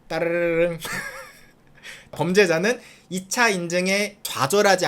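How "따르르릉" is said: sung-out imitation of a ringing phone. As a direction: ring it out like a telephone. (전화벨 소리 흉내)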